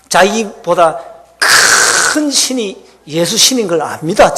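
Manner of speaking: ordinary delivery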